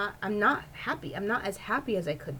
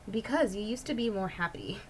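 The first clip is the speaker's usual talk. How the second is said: imitating broken English; 2 semitones higher than usual. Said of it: "in her kind of broken English".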